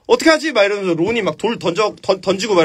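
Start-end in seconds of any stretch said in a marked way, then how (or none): 0.1-0.5 panicked. Retold or imitated. Panic at the troll.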